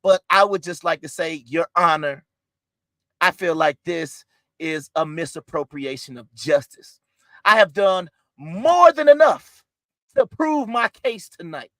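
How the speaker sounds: mock outrage. Lawyer appeals to judge.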